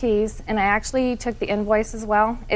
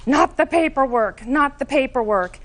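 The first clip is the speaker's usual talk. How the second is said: mildly imitated yell, slightly raised pitch; retold yelling; 4 semitones higher than usual. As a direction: call it out as a toned-down mock yell. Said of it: "was yelling at me".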